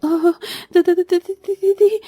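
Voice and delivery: frightened stutter on the name; little girl stammering at the ants; stammering fright. Acted. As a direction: stumble over the word in panic. Ants appear, stammering in fear.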